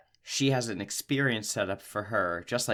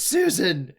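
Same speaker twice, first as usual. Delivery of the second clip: higher, louder mock yell; yelling Susan; 8 semitones higher, 6 dB louder than usual. Grandma yells after departing granddaughter, higher louder mock yell. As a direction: call her back sharply. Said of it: "she goes".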